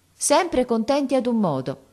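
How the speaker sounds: a hint of a daughter who won't be refused; determined girl. Silvia insisting to her mother, a touch of determination.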